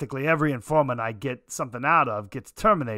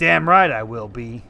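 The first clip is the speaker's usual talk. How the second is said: a sudden loud, defiant answer; loud insistence; 9 dB louder than usual. Acted. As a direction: fire it back hard and loud. Insisting to the detective.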